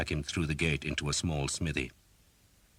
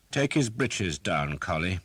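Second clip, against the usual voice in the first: slow, higher, louder command; cold order; 4 semitones higher, 4 dB louder than usual. Acted. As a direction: give the order without pity. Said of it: "Sir Simon ordered".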